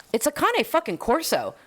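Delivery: high incredulous exclamation; disbelieving outburst; exasperated. Real, not acted. Exasperated retort.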